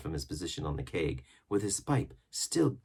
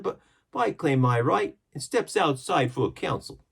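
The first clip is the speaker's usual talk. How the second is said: much higher, louder sailor voice; defiant pirate crewman; 10 semitones higher, 7 dB louder than usual. A narrator's reading. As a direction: claim your rights against the captain. Crewman demands a council.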